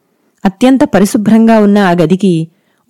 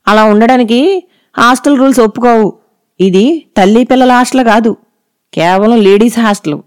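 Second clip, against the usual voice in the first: higher, every word pressed firmly; emphatic; 4 semitones higher than usual. A narrator's reading. Warden refusing to let the mother keep her son, emphatic. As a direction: lay down the hostel rule word by word. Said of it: "అంది ఒత్తి పలుకుతూ".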